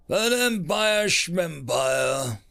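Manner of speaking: dismissive. Acted. Alien mocks the empire.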